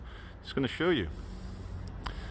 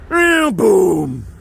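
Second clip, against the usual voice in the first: triumphant; 5 semitones higher, 5 dB louder than usual. Real, not acted. Celebrating the crossing.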